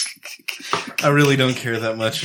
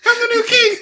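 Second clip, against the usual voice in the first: high, hammed-up royal voice; mock king proclaiming himself. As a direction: play the pompous new king. Mocking the new British king.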